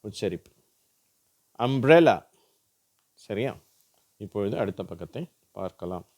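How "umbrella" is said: "அம்ப்ரெல்லா" loud, with clear blended mbr; MBR word. Shown as a demonstration. Teacher giving an example, "அம்ப்ரெல்லா" with a clear mbr. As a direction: model "அம்ப்ரெல்லா", m running into br. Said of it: "ம்ப்ர் அப்படிங்கிற மாதிரி".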